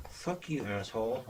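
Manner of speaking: bratty ventriloquist dummy; puppet voice. Acted. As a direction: sass him as the puppet Sean. Ventriloquist dummy Sean talking back.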